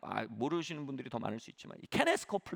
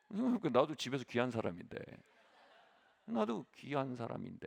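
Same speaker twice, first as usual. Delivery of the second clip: laughing. Real, not acted. Self-deprecating joke to audience.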